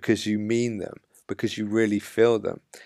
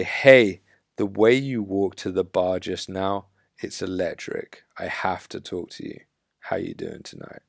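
direct confident opener; 2 semitones lower than usual. Shown as a demonstration. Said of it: "having the balls and the authenticity".

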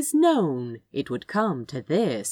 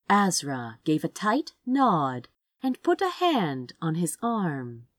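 plain reading voice

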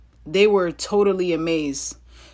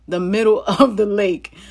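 laughing while reading; 4 dB louder than usual. Real, not acted. Reader finding the Bible story funny, laughing while reading. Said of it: "I'm laughing again because this is funny".

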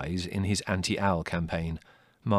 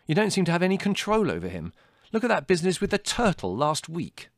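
high, loud reproach; exasperated accusation; 11 semitones higher, 7 dB louder than usual. A narrator's reading. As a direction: complain forcefully to mother. Larry scolds Mother.

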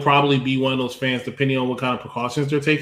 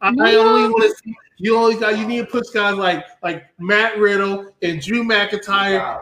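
a lightly worked-up fan's rant, somewhat higher; mock rant; 4 semitones higher than usual. Host doing his decap rant segment with mild exasperation. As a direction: vent like a fed-up wrestling fan. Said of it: "this is my decap rant".

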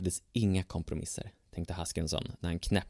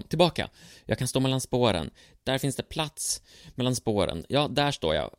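panicked; 4 semitones higher, 3 dB louder than usual. Acted. Haskinson panics on the tracks.

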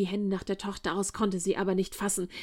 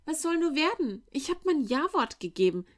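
put-on high, anxious lament of a frightened girl; girl in despair, mild fear; 8 semitones higher than usual. A narrator's reading. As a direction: wring your hands as you say it. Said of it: "rang die Hände".

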